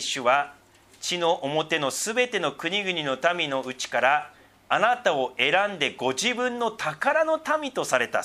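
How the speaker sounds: slow, measured reading of the verse; solemn Bible reading; scripture reading. Acted. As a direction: read it out like a lesson in church. Reads scripture aloud.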